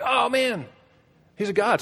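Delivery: high, drawn-out amazement; hammed-up worship; mock awestruck cry. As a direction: exclaim like a wonderstruck little creature. Voicing awestruck Ewoks in film retelling.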